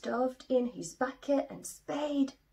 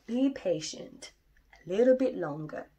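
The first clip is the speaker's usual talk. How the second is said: patient dad; 6 dB louder than usual. Acted. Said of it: "said Daddy".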